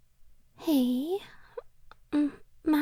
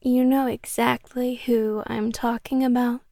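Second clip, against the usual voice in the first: louder, sweetly menacing; yandere menace; 4 dB louder than usual. Acted. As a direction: turn possessive and threatening. Yandere reveals handcuffs, jealous.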